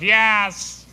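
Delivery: high squawky parrot reply; talking parrot answering the robber, high. Acted. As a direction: chirp it like a bird. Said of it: "The parrot goes".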